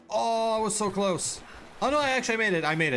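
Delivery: can't believe he made it; relieved surprise. Real, not acted. Barely escapes drowning in game.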